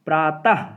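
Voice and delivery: "प्रातः" ending in a breath of ह; audible final h. Shown as a demonstration. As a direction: sound the visarga in "प्रातः" as a clear ह. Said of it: "इसमें आपका ह की ध्वनि".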